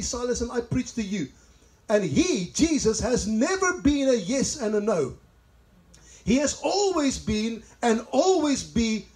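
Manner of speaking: emphatic scripture reading. Acted. Preacher reads Paul's letter to the congregation, emphatic. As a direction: read the verse out with measured weight.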